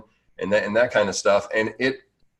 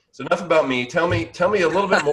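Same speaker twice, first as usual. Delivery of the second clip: breathless and a bit higher; out of breath; 7 semitones higher, faster than usual. Real, not acted. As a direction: talk while catching your breath. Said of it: "I know I'm out, like, out of breath now".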